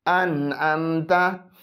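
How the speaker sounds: अन अमता slow, नून sounded clearly; अन अमता, no nasalising of the नून; clear izhar. Shown as a demonstration. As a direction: read अन अमता with a clean open न. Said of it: "यहाँ नून साकिन पर इजहार होगा".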